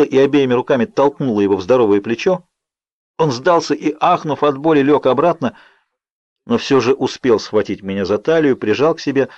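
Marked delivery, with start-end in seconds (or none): none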